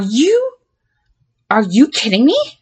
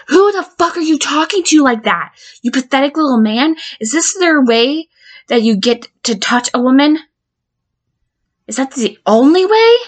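enraged; 2 semitones higher than usual. Acted. To the pathetic counselor filming women, raging contempt. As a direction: tear into him with scorn.

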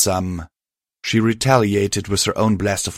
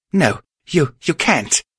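shouting; 8 semitones higher than usual. Acted. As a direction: cry out to stop her. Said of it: "Spark shouted".

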